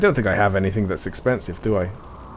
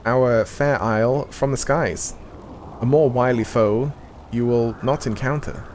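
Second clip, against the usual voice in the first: measured, solemn NPC reading; game dialogue reading; 3 semitones higher than usual. Acted. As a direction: read it like a quest-giver's briefing. Reads game NPC dialogue aloud.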